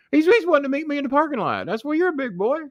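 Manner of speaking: very high, hurried mock panic; scared to death. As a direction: imitate a terrified man, stammering up high. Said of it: "scared to fucking death".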